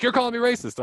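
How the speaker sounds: hammed-up outraged teen; upset student accusing the teacher, mock high yell; retold yell. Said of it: "this kid's yelling at me".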